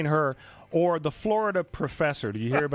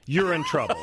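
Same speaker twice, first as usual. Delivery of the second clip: laughing through the words; 2 semitones higher than usual. Real, not acted. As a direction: say it while cracking up. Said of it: "now you're laughing".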